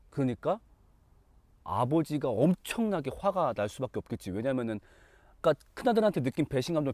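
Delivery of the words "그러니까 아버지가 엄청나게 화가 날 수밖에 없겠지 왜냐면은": ordinary talk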